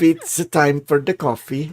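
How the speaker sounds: put-on Finnish accent, a bit Scottish; mock Finnish accent. Counsel waking Richard for coffee, mock Finnish accent. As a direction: attempt a Finnish accent, playfully. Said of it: "they gotta speak in Finnish accents".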